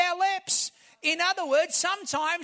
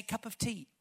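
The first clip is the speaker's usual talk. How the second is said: soft, lower Australian cup of tea, said as locals say it; "Cup of tea" in a gentle Australian accent, much softer; 5 semitones lower, 11 dB quieter than usual. Retold or imitated. Pastor mimics how Australians say it, Australian accent. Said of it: "Everybody say".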